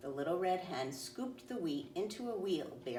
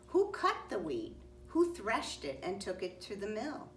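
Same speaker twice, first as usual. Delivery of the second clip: somewhat higher pointed questions; indignant hen; 5 semitones higher than usual. Acted. Hen scolds the friends who did not help, indignant. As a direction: drive each question home.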